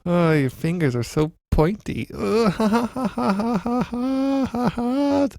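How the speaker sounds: high squealing laughter while tickled; being tickled. Pretend. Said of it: "doing some improv of you tickling me".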